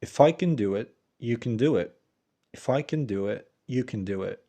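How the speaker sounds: "can" as a light "ken" in each clause; teacher's model with reduced "can". Shown as a demonstration. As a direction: keep "can" short and weak before "do it". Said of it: "فمثلًا نقول".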